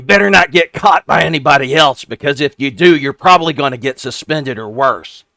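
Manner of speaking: very high, loud goblin squeak; a small goblin sizing up strangers, shrill-pitched; squeaky goblin. Acted. GM voicing a goblin questioning the rogue's party, squeaky and high.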